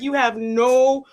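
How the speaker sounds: mock-heated telling-off, leaning on each word. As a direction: retell his angry scolding, slow and emphatic. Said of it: "He was heated".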